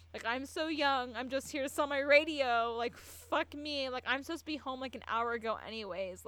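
high, loud acted plea; desperate begging. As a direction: plead like a teenager begging to be spared. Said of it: "And he just begged".

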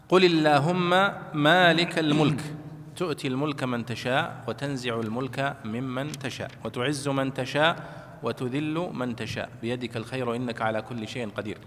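solemn Quranic recitation. Acted. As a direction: recite it like tajweed, drawing out each phrase. Recites Quranic verse in class.

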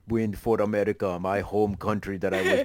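lightly done mock Austrian accent; wobbly imitation of an Austrian accent; Schwarzenegger accent. Podcaster playing the last hero standing, shaky-grasp Austrian accent. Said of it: "the accent's getting away from you".

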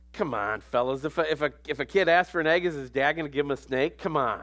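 easygoing and chummy, lightly voiced; casual Jesus. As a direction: talk to the guys like a buddy. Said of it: "I think Jesus was just like".

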